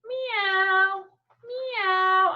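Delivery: playful cat voice. Acted. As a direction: meow up high and cute. Cat noise for kids.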